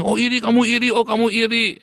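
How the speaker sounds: high, loud sneering "oh, kamu iri"; mocking taunt. People mocked for not listening, taunting him as jealous. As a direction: mimic the scoffers' jeering accusation.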